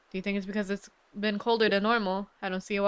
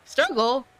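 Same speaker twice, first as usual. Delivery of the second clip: Struggle? with a high, louder rising end; questioning rise; 4 semitones higher, 4 dB louder than usual. Shown as a demonstration. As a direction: ask Struggle? puzzled, pitch up.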